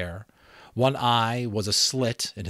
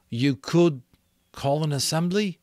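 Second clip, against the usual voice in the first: lightly voiced boy, a bit higher; Piggy's voice; 8 semitones higher, 5 dB louder than usual. Piggy answering Ralph, a lightly voiced boy.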